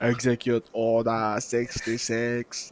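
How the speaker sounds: slow, solemn command voice; movie villain command. Retold or imitated. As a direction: deliver it like a cold order. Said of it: "That's what he said".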